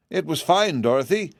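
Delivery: a hint of a chirpy little pig; piglet calling out. A narrator's reading. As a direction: call out in a small high voice. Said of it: "called one of the piglets".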